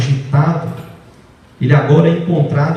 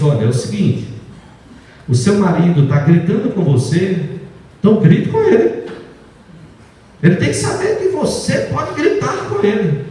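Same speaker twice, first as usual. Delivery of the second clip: mocking the psychologist. Pastor mocking a psychologist's advice to a wife. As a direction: mimic a glib counsellor, mockingly. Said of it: "É conselho que para e diz".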